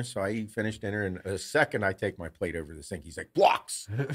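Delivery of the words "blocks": put-on high, excited little-kid call; imitating a kid's excited demand; eager kid. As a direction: call out for playtime like an eager child. Son eagerly demanding blocks.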